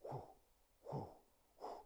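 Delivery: short, airy spaced whooshes; sling whooshes. Acted. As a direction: imitate a sling circling overhead. Sling swinging overhead.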